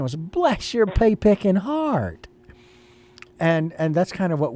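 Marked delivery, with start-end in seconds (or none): 0.1-2.3 put-on Southern accent. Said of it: "that's kinda what he was saying".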